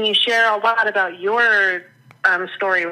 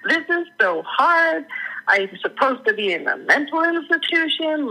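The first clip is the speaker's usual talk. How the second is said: mock complaining; 8 semitones higher than usual. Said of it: "and telling them, like".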